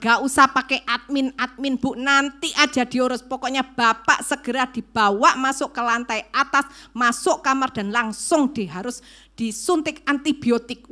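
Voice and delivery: firm, emphatic doctor's instructions; urgent orders. Retold or imitated. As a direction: brush off the paperwork and order it done now.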